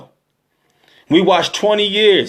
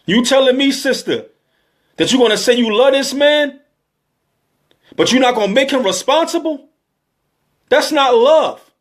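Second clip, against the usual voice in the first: rising, pleading voice that climbs higher; getting emotional; 5 semitones higher than usual. Real, not acted. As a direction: let the feeling break through as you challenge her. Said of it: "I got emotional".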